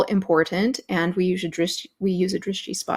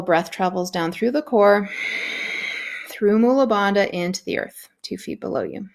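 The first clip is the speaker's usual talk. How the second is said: guided breathing cue. Acted.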